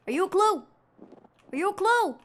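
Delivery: high, loud sing-song question; high playful. Shown as a demonstration. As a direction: chirp it at the object brightly.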